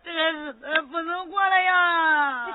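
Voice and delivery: slow, drawn-out wailing cry; wailing lament. Acted. Mother complaining to her in-law, slow wailing. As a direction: wail as if life is unbearable.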